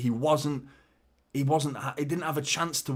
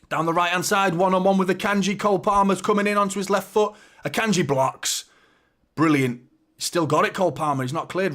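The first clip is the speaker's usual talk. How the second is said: raised, urgent play-by-play; excited commentary; 6 semitones higher, 5 dB louder than usual. Real, not acted. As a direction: call the attack live, high and loud. Live commentary on dangerous attack.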